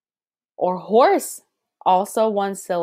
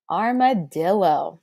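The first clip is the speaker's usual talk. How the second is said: slow word demo. Shown as a demonstration. Introduces new word for rhythm.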